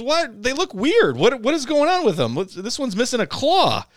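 very high, loud, mock disgusted voice; hammed-up high aunt recoiling at the lobsters. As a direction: squeal like the aunt inspecting odd lobsters. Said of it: "And she goes".

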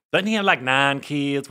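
lightly imitated Southern twang; Southern accent. Woman turning down a guy, in a light Southern accent. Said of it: "with her southern accent".

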